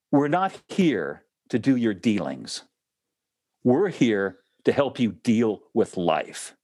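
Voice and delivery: slow, deliberate angelic reply with long pauses; retold solemn statement, unhurried; measured pronouncement. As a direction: lay down each phrase slowly and firmly.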